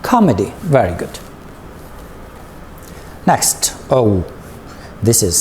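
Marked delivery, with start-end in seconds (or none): 0.0-0.5 comedy, stressing the COM; first-syllable stress on comedy. Shown as a demonstration. Teacher shows learners the stress, comedy stressed on COM. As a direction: hit the first syllable of comedy, then fall. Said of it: "So we say it like this".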